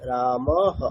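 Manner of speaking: "রামহ" ending in a short, separate "হ"; visarga as short ha. Shown as a demonstration. Teacher showing students visarga after a, "রামহ" ending in short হ. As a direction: sound the final "হ" briefly with an a-sound. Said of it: "তাহলে অ। তাহলে কেমন হবে?".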